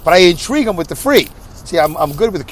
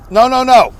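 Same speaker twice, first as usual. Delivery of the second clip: higher, louder "no, no, no", imitating his dad; mock shouted no; 7 semitones higher, 6 dB louder than usual. Son imitating deaf dad refusing the offer loudly. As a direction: bark out the refusal like his stubborn father. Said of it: "Like that".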